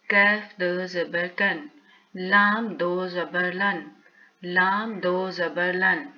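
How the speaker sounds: slow rhythmic sounding out of each letter; steady classroom drill, each line falling at its end; teacher drill recitation. Shown as a demonstration. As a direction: chant the chart for pupils to repeat. Drills whole tanween chart.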